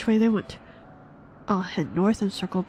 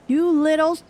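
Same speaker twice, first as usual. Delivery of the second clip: angry outburst; 8 semitones higher, 6 dB louder than usual. Acted. Startled outburst at companion.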